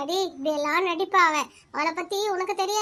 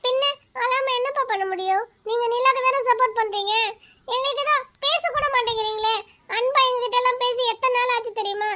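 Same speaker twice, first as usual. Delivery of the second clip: fake crying; 4 semitones higher than usual. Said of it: "நடிச்சு".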